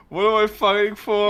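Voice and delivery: hammy anime hero cry; dramatic dub line. Retold or imitated. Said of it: "It reminds me a lot of the, the Mega Man Zero".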